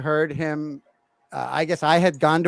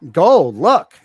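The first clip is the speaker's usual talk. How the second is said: put-on excited kid; 10 dB louder than usual. Son excitedly shows gold.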